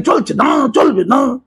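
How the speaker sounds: shouted protest slogan, imitating marchers; rally chant, half in jest; mock slogan shout. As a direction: chant it like a street rally crowd.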